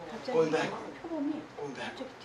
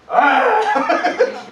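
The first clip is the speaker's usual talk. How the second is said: mock bear roar; 6 semitones higher, 4 dB louder than usual. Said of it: "he turned back and said".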